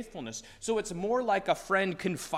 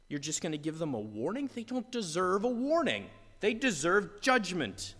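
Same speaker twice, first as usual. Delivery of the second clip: pleading for judgment in frustration; exasperated complaint. Retold or imitated. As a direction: believer complaining to God about mercy, exasperated. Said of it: "We're thinking".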